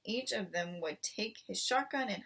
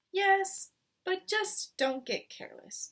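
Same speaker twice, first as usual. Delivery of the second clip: much higher on yes, pleading; worried wife; 11 semitones higher, 5 dB louder than usual. A narrator's reading. Missus Fox cautioning her husband, anxious. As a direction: warn him gently but urgently.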